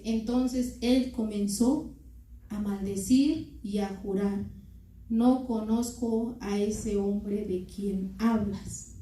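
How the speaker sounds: slow, deliberate scripture reading; lectura bíblica. A narrator's reading. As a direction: read the verse slowly, spacing out the phrases. (lectura bíblica lenta y pausada)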